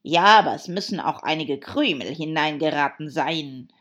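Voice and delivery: loud, grumpy complaint; growled grumble. Acted. Hatter scolding the March Hare over crumbs, grumpy. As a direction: grumble loudly at the culprit. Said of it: "knurrte der Hutmacher".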